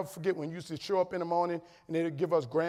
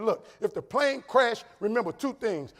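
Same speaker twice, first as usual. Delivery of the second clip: raised, high and emphatic; louder, slower mock-serious instruction; insistent retold argument; 5 semitones higher, 5 dB louder than usual. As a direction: lay it out to a worried spouse, stretching the words. Acted argument with his wife about flying.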